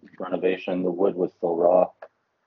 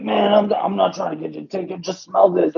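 higher, fast pushy stranger voice; 9 semitones higher than usual. Retold or imitated. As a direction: play him pushy and high.

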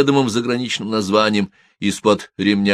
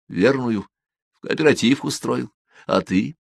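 a boss voiced a little higher, calmly threatening; menacing gang boss; 6 semitones higher than usual. Filin scolds Kol. (главарь, спокойно угрожает)

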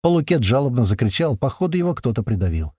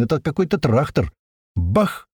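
plain reading voice

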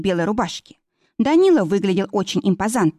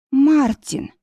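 gasped name; 7 semitones higher than usual. A narrator's reading. Yana sees Martin suddenly: gasped cry. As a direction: breathe out his name in shock. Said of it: "выдохнула она".

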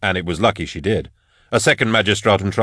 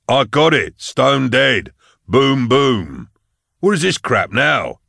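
put-on half drunk; 4 semitones higher, 4 dB louder, slower than usual. A narrator's reading. Half-drunk Falcon boasting.

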